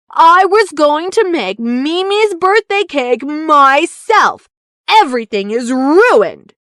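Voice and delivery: a hint of a pouting little baker; stubborn sad Bongo. Bongo refuses help.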